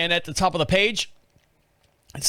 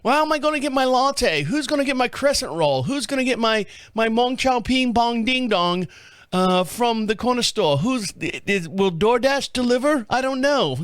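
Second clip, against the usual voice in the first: high-pitched annoying British caricature; put-on British whining, pitched up; mock British accent; 6 semitones higher than usual. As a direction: fret in a hammed-up British voice. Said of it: "they have a British accent, just because they're annoying".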